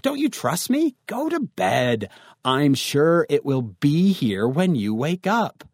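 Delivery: lightly acted annoyed dad, drawing the words out; mad father. Father sends his worried teen to bed, mildly indignant. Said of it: "your father actually gets mad at you".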